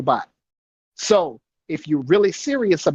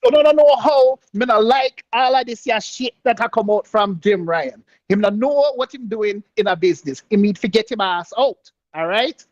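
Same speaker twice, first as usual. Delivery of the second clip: higher, broken-English alter ego; 5 semitones higher than usual. Pretend. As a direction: switch into a cartoonish alter ego. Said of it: "I'm gonna turn to my alter ego".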